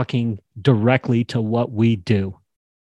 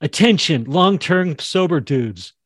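announcing callout; 5 semitones higher than usual. Shown as a demonstration. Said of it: "She could say it just like that".

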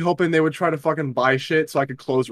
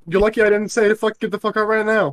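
mock furious dismissal; 7 semitones higher than usual. Finishing the imagined retort.

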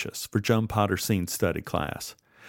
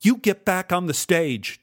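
high-pitched, indignant raised voice; shouted order; 8 semitones higher than usual. A narrator's reading. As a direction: shout the command, partly held back. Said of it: "Joan shouted".

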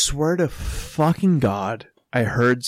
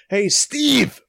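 high calling voice, name thrown out; imitated call; 10 semitones higher, 3 dB louder than usual. Storyteller imitating someone calling his friend, calling out.

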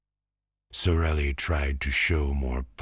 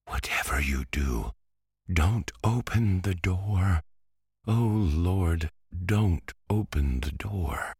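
frightened plea; 6 semitones higher than usual. Acted. Frightened girl pleading.

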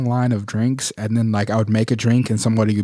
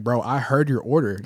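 retold call-out. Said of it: "and I was like".

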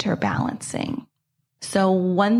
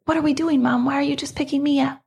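put-on higher, quick puzzled kid questions; curious daughter; 5 semitones higher, faster than usual. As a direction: play the daughter, curious and a bit suspicious. Daughter's surprised questions voiced.

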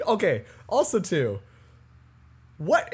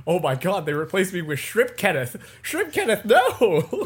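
a player wailing at his shrimp double, half laughing; mock despair. Kenneth sees his shrimp replacement.

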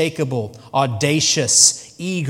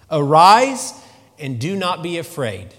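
Arise rings out loud, then settles; preacher booming Jesus' words; proclaimed command; 6 dB louder than usual. Acted.

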